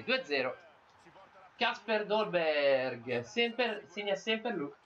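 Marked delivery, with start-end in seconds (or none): 1.6-4.7 drawn-out goal call. Real, not acted. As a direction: stretch the name out, slow and proud. Drawn-out name after goal.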